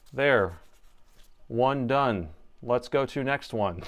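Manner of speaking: flat monotone droning. Shown as a demonstration. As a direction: talk like a bored robot. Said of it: "Let's talk like this".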